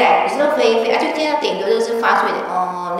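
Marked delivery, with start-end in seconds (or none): 2.5-3.0 mosquito buzz. Retold or imitated. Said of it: "那蚊子飞那种声音".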